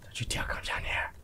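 low warning whisper; threatening whisper. Pretend. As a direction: warn them off in a whisper. Threatening the followers.

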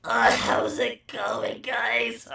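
slow whispered mock sob; fake-weep the greeting; exaggerated crying. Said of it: "that's over-exaggeration".

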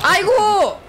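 sharp high startled aigo; sudden high-pitched dismay; startled cry. Real, not acted. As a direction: yelp it as the hit lands. Sudden game setback.

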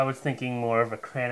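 speaking around glass rim; drinking mid-sentence; talking while sipping. Real, not acted. Seen 0: glass raised to lips mid-phrase, sipping around 1.1-1.5.

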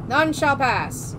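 slow guard voice. Acted. Guard's closing line.

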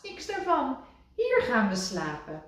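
high, firm no; Rad's firm refusal. A narrator's reading. Rad refusing Kikker, high and firm. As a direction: put your foot down.

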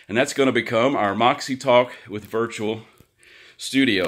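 slightly out of breath, rushing. Real, not acted. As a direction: talk while catching your breath. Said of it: "a little out of breath trying to get everything in".

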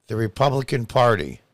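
ordinary talk, nothing marked

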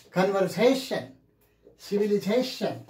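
"Conversation, civilization" stressed on "sa" and "za"; stress before "-tion". Shown as a demonstration. Teacher drilling the suffix rule, stress just before "-tion". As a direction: lean on the syllable before the final "shan". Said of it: "you have to stress here".

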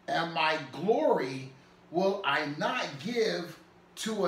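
slow, measured scripture reading; solemn, deliberate Bible reading. Acted. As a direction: read the verse out slowly, weighting each phrase. Reads scripture aloud.

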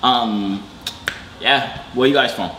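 mock English accent; put-on English accent. Claiming to be from Birmingham, put-on English accent. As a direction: bluff your way through in a fake English accent. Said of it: "trying to do an English accent".

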